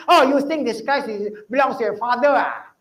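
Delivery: a mildly hammed-up irritated teacher; sarcastic scolding. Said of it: "You don't do that lah".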